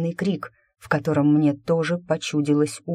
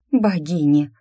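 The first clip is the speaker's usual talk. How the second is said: understated gasp of alarm; narrated exclamation of shock; soft gasp; 4 dB louder than usual. A narrator's reading. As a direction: gasp the word in dismay, pitch lifted a little. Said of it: "тихо ахнула позади Нелла Арти".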